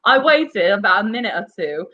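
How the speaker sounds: lightly voiced Jonathan Wass, slurring his R's and L's; mock Jonathan Wass reading. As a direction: read the grim statement as Jonathan Wass with a speech lisp. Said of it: "let's bring Jonathan Wass into this".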